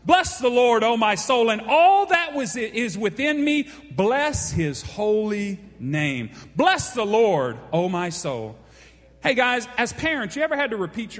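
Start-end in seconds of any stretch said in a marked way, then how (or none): 0.1-8.6 proclaimed. Shown as a demonstration. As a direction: proclaim it to the whole church. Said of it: "the way the King James writes".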